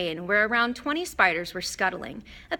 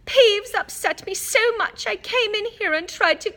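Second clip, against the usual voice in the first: dramatic; 14 semitones higher, 7 dB louder than usual. A narrator's reading. Ghost girl answers the question, overly dramatic. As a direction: drag it out with theatrical sulk. Myrtle continues.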